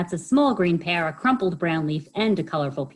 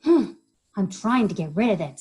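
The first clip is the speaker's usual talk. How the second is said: sniffing; 4 semitones higher, 5 dB louder than usual. Acted. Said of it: "sniffed Hedgehog".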